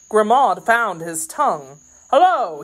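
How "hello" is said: high, loud hail; startled, raised-voice hello; crying out. A narrator's reading. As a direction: call out sharply in challenge. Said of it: "he cried".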